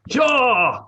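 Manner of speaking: high, loud whoop; excited cheer. Real, not acted. Player firing a crossbow in the game, excited cheer. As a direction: let out a big triumphant yell.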